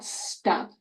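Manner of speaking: whispered "Stop" with quiet P. Shown as a demonstration. Therapist whispering the model word. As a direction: breathe "Stop" gently. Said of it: "let's go back to stop".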